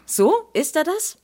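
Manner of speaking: sharp, doubting questions, pitched high; sceptical challenge. Acted. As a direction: needle him with disbelief. Skeptische Mutter hakt nach. (skeptisch nachbohrend, deutlich höher)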